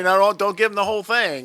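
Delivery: loud, high mock coach protest; coach's warning. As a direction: imitate a coach urgently calling out a warning. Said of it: "Coach is over there telling you".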